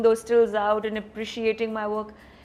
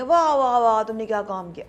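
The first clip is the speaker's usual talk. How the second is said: mock gushing praise; 5 dB louder than usual. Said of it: "ایسا نہیں کہیں گے کبھی".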